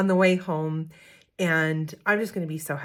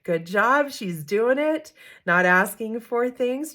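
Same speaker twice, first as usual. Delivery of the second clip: proud inner cheer; 5 semitones higher, 4 dB louder, slower than usual. Retold or imitated. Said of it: "And I thought".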